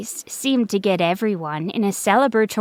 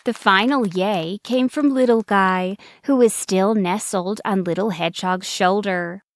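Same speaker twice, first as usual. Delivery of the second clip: ordinary delivery, nothing marked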